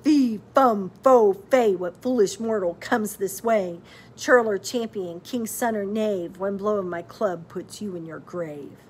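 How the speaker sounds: loud booming giant chant; giant's bellow. A narrator's reading. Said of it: "he bellowed".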